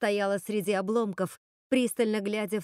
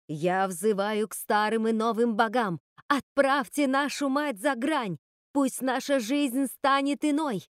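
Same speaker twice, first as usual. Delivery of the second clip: заклинание. Acted. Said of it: "продолжала твердить эти слова".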